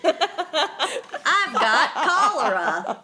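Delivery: put-on slow, drawn-out old prospector; old-timey prospector voice. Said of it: "It's old-timey, right?".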